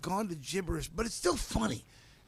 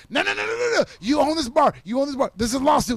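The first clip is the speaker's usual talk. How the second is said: much higher, louder frantic no's; panicked pleading; 8 semitones higher, 9 dB louder, faster than usual. Retold or imitated. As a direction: beg him to stop, alarmed. Pleading him to let go.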